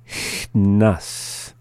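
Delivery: "Chnas" with a held "Ch" and a small gap before "nas"; slowly. Shown as a demonstration. Teacher repeating after the English, "Chnas" said slowly. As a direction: ease "Chnas" apart slowly. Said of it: "the second time slowly".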